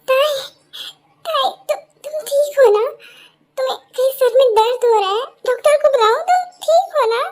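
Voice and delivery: worried. Acted. Friend asks about the hurting head, worried. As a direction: fret over someone in pain. Friend panics over a headache.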